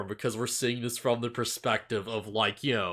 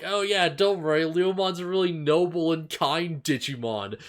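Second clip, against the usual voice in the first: imitated reassurance; 5 semitones higher than usual. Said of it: "they're just like".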